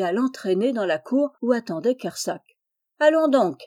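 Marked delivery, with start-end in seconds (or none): 3.0-3.6 high, loud call to hurry up; raised, urging cry; impatient shout. A narrator's reading. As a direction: shout it out to get them moving. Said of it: "cria Kersac".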